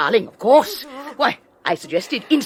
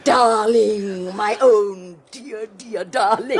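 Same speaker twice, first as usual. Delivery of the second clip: mocking echo; 3 semitones higher, 3 dB louder, slower than usual. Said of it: "gasps Henrietta".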